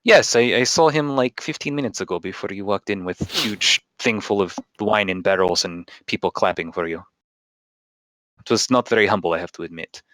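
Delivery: lightly put-on Russian accent; chatty barkeep, slight Russian accent; a hint of Russian accent. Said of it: "the accent's just going away".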